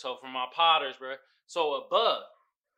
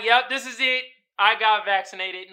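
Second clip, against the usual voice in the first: voicing players; 7 semitones higher, 10 dB louder than usual. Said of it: "They're like".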